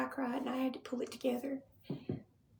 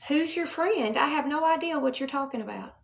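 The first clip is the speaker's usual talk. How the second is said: angry; 2 semitones higher, 6 dB louder than usual. Real, not acted. Confronting commenters during grief.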